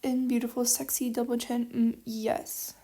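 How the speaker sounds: loud, teasing sultry voice; mock seductive. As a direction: purr it out like a flirty joke. Flirty joke about her double chin.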